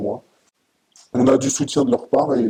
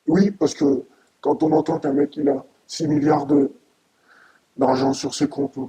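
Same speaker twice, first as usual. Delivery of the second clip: angry; 4 semitones higher than usual. Real, not acted. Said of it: "très ému, mais aussi très en colère".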